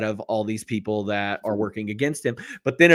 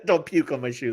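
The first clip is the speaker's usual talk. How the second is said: Bones impression, corrected. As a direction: deliver the exact line in his gruff manner. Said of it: "That's what he said".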